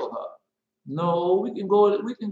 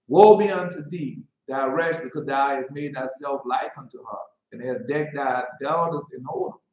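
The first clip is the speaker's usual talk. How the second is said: mock biblical prophet. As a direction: declaim it like a prophet. Reading Obadiah aloud.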